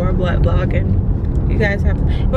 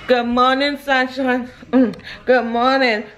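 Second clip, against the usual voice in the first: put-on sing-song baby greeting. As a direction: coo good morning to the little one.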